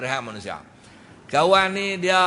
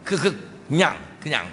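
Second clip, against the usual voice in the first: stammering demo; faster than usual. Shown as a demonstration. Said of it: "gagap ni".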